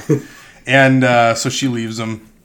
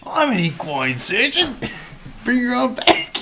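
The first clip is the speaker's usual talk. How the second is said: mock Cockney farrier; 13 semitones higher than usual. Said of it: "He's Australian".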